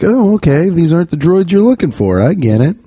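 high, dazed Jedi mind-trick reply; mind-tricked people. Retold or imitated. People under his spell agreeing, high dazed mock voice. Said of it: "putting a spell on people".

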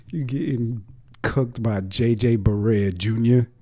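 loud, high, mocking disbelief; can't believe what he's watching; incredulous shout. Real, not acted. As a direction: yell it in outraged disbelief. Disbelief at a player getting outplayed.

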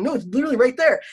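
high, loud protest to dad; retold frantic insistence. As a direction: insist in mock exasperation.

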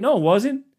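high, indignant whine; mock petulant grown-up; high whiny complaint. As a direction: sulk like a sore loser. Rebutting in whiny voice.

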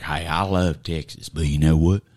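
low, lightly voiced old coach; a hint of a rueful old coach; mock Mac Brown. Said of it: "He's like".

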